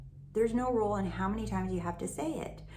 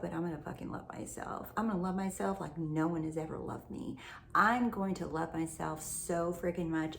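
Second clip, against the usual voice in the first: determined self-talk. Shown as a demonstration. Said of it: "That's how I wanna be".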